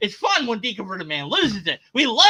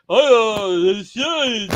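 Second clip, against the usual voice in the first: exasperated groan; 7 dB louder, much slower than usual. Retold or imitated. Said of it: "so just like".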